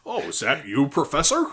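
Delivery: put-on a timid boy greeting his teacher; Harry Potter impression. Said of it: "I can't do it like you do".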